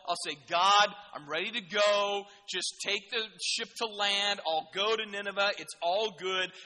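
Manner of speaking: rallying evangelist, loud opening then measured pace; rally the crew like an evangelist; full evangelist. Acted. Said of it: "He could have went full evangelist".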